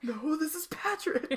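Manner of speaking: Patrick voice. Pretend. Answers the Krusty Krab bit.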